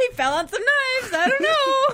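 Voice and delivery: very high, loud cartoon voice; high squeaky voice.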